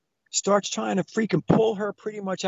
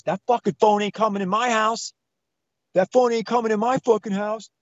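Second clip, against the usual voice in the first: higher-pitched retold rant; indignant, only mildly raised; mock angry husband; 5 semitones higher than usual. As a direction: imitate an irate man laying down the law. Acting out the raging husband.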